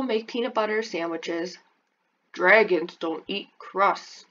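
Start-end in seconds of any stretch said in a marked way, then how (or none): 2.3-4.3 slow, sulky grumble. Acted. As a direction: complain like a stubborn kid. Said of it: "you'll grumble".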